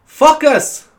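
put-on FOCUS said as "fuck us", high, German-accented. German teacher saying focus, mispronounced in accent. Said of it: "she used to say".

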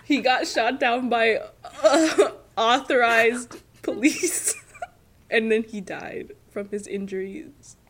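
mock sobbing while giggling; laughing through a fake sob story; fake crying through laughs. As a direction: pretend to cry but keep cracking up. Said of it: "She's literally laughing".

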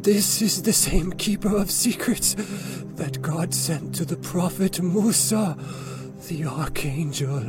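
put-on slow, eager old man's voice; excited old man. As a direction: blurt it out in awe. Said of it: "he blurted out".

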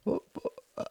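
faint, stammered attempt to speak; voice cracking. A narrator's reading. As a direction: struggle to get the word out. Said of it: "Martin's voice cracked".

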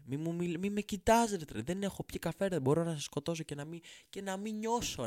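high-pitched half-joking threat; mock menace. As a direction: snap at him like a cranky addict. Uncaffeinated rant at the talker.

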